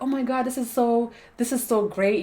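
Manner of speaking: gushing with sudden excitement; fast, high, thrilled gush; excited. Retold or imitated. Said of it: "You'll be like".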